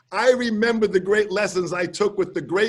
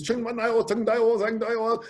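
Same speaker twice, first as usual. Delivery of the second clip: mock Chinese gibberish building to an announced name; 3 semitones higher than usual. Host introducing the guest to the crowd, mock Chinese announcer. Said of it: "he's speaking in Chinese".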